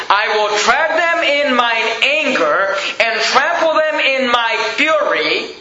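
slow, heavy quoting of the verse; slow scripture quote. Acted. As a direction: press the words out slowly.

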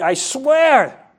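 emphatic oath. Acted. Preacher acts Peter denying with an oath, emphatic oath. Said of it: "taking a very strong oath".

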